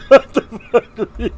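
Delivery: high, slow disbelief; incredulous. Real, not acted. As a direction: stretch out the shock. Laughing disbelief.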